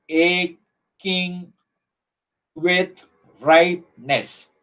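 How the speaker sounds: slow, separated syllables with long gaps; syllable counting. Shown as a demonstration. Teacher counting ten syllables for the class, slowly spaced out. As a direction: pause between each beat of the line.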